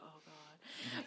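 hushed, weary groan under the breath; voiceless mock dismay; imitated dread. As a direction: sigh it as a mother seeing that call. Mimics mother seeing her call.

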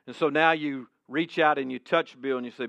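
ordinary talk, nothing marked

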